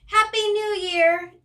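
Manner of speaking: high, slow, loud New Year cheer; excited cheer. Acted. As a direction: cry it out with the whole party. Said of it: "everybody cries".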